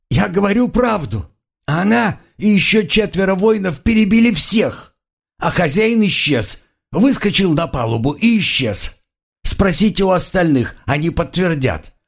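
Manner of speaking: high, tearful pleading; blubbering out the truth; crying prisoner. A narrator's reading. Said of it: "продолжал реветь пленник".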